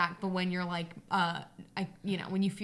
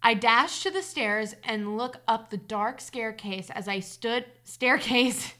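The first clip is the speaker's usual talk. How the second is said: story narration; 4 dB louder, slower than usual. A narrator's reading. Reader telling listeners of a childhood hide-and-seek scare, story narration. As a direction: read the tale aloud, measured and deliberate. Reads a personal story aloud.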